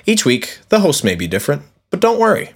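upbeat podcast host intro; bright radio-style show opener; intro read. Acted. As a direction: announce the show with host energy.

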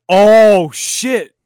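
light mock high-pitched voice; Hoovy. Wrestler suddenly learns of tonight's match, lightly imitated high-pitched dismay. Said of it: "It's just in his high-pitched voice".

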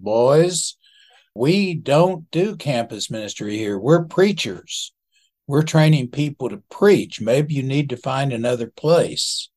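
a hint of a Texas seminary president's accent; Southern Texas accent. Seminary president turning students away, light Southern Texas accent. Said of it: "nice Southern Texas accent".

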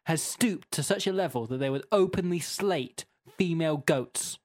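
mild indignant emphasis; impassioned reading. Acted. Host finishing Jean's all-caps feedback, mildly impassioned. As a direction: finish the complaint with mock outrage. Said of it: "that's impassioned feedback again".

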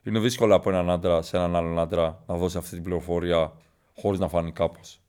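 low, hushed conspiratorial voice; lightly acted gossip sharing secrets; mock secretive confidant. Contestant secretly warning a newcomer about outside gossip, low and hushed.

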